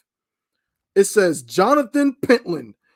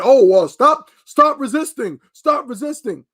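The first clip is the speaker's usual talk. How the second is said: mock cop; 5 semitones higher, 3 dB louder than usual. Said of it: "just like a cop saying".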